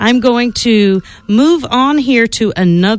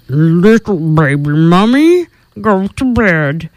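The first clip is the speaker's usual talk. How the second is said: lower, slow, fading to a whisper; creepy warning; 3 semitones lower, slower than usual. Acted. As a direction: warn spookily and sink into a whisper. Swamp creature warns baby.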